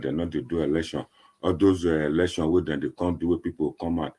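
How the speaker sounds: ordinary talk, nothing marked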